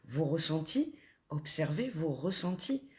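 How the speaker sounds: calm guided meditation voice. Acted. Guides listeners to observe feelings.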